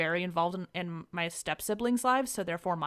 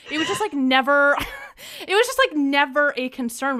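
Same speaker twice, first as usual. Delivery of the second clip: laughing; 6 semitones higher, 8 dB louder than usual. Real, not acted. Laughs mid-sentence.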